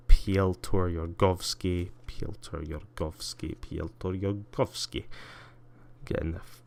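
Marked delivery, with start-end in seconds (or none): 0.1-5.1 put-on slow, heavy-handed Russian accent. Streamer playing with a traveller's name, put-on Russian accent. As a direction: roll out the name in mock Russian. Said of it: "filthy Russian accent there".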